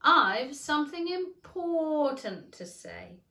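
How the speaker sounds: loud, slow call. Acted. Caterpillar calling Alice to return, loud and slow. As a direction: keep calling her back loudly. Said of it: "called after her".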